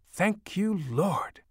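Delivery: high-pitched joyful whoop. A narrator's reading. Mother heard from the living room, whooping. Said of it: "I could hear her whoop".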